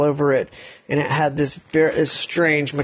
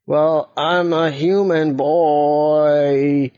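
put-on timid boy voice; 2 semitones higher, 3 dB louder, much slower than usual. Boy answers the robots.

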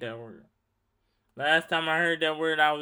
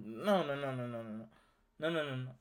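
quiet refusal; 4 semitones lower, 8 dB quieter, faster than usual. Retold or imitated. Refusing the oil.

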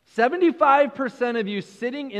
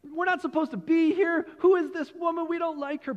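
higher-voiced mock grumble among the disciples; lightly voiced, higher, disapproving disciples; grumbling disciples; 8 semitones higher than usual. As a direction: play the disciples' suspicious inner voices. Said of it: "their minds are going".

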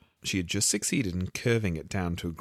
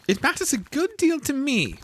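hasty; 4 dB louder than usual. A narrator's reading. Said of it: "said Alice hastily".

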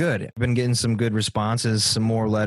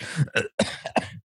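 cough; 4 semitones higher, 4 dB quieter than usual. Real, not acted. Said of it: "the cough is".

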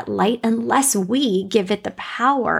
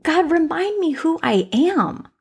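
earnest plea; 8 semitones higher than usual. Retold or imitated. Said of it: "I was just like".

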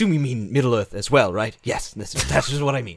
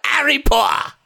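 British accent; 10 semitones higher than usual. Shown as a demonstration. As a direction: cry it out in a mock British accent. Demonstrates a British accent to coax partner.

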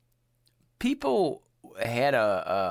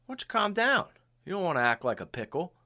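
lightly voiced laid-back seventies dude; calm someone down like a seventies hippie; mellow seventies guy; 3 semitones higher than usual. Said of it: "people would be like".

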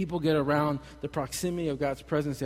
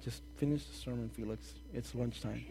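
mock bored congregation; 4 semitones lower, 12 dB quieter than usual. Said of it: "you guys are like".

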